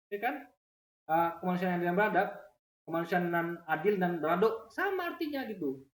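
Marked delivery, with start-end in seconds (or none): 2.8-4.7 Minang accent, ending on a rounded "-dok"; Minang dialect. Shown as a demonstration. Teacher showing that only the dialect differs, Minang dialect. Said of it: "Cuman logatnya beda".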